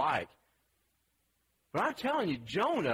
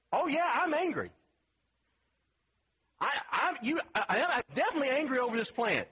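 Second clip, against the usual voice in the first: whiny sulking Jonah; 7 semitones higher than usual. Retold or imitated. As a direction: play Jonah as a melodramatic sulker. Preacher voices sulking Jonah.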